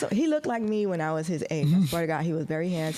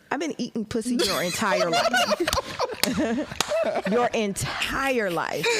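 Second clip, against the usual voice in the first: laughing punchline; 4 semitones higher than usual. Retold or imitated. Punchline to the young man.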